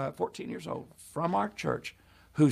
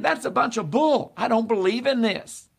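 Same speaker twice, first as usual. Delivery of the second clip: higher-pitched retold scoff; scoffing disbelief; 5 semitones higher than usual. Preacher quotes the doubting John, indignant scoffing. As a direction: push it out as an indignant objection.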